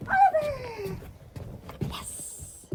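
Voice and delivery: high bright name call; calling the puppy's name. Real, not acted. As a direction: sing out the dog's name.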